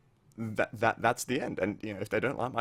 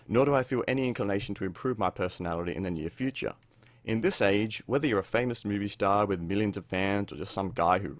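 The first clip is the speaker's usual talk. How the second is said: reading an excerpt aloud. Acted. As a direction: read the letter out like a defiant statement. Reads out a book excerpt.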